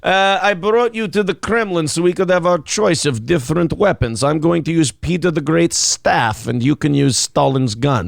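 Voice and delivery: lightly voiced Russian host of a duel; Russian accent. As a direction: put on a comic Russian accent. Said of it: "you can do a Russian accent".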